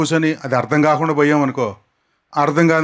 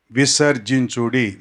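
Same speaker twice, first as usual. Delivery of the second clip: slow repetition; 4 semitones lower than usual. Shown as a demonstration. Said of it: "నాతో పాటు పలకటానికి".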